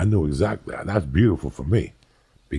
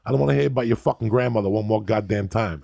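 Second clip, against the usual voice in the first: higher, fast mock tirade; retold angry rant; 5 semitones higher than usual. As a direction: tear into the lawyer, half-acted fury. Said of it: "And I'm like".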